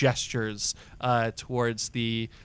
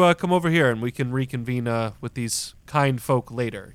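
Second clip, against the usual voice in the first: put-on old earthbender; 5 dB louder than usual. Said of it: "call out to you and say".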